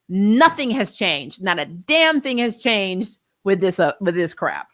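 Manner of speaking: slow, weighted frustration on nothing; frustrated emphasis. Real, not acted. Streamer venting to chat, slow frustrated stress. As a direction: drag out nothing and damn. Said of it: "It is so frustrating to me".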